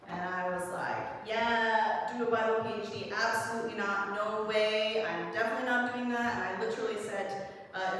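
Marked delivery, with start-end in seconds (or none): 1.2-6.3 emphatic refusal. Retold or imitated. Flat refusal of parents' plan.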